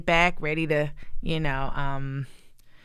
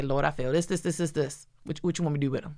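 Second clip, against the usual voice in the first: quiet prayer; 4 semitones lower, 5 dB quieter than usual. Retold or imitated. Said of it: "I'll say".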